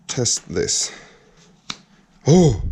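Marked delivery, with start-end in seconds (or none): 2.3-2.6 sudden delighted "Oh!"; surprised exclamation. Real, not acted. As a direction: react as if the click surprised you. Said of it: "Did you hear that?".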